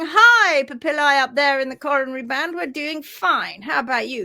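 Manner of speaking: lightly voiced cheerful cell; cheerful heel papillae. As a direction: answer upstairs like a happy neighbour. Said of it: "the papillae down at the heels are going".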